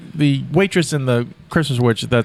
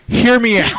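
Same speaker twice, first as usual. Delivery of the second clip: mock excited plea; 8 semitones higher, 4 dB louder than usual. Retold friend's excited pitch.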